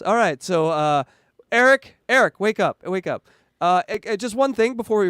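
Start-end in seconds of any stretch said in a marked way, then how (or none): 1.5-3.3 calling out. Real, not acted. Waking up sleepy co-host.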